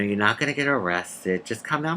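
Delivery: softly retold hushed reassurance; half-whispering. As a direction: keep it low and quiet, as if confiding. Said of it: "kinda whispering and saying".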